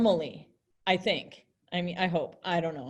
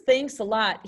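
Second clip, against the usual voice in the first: mean; 3 dB louder than usual. Shown as a demonstration. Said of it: "he's being mean".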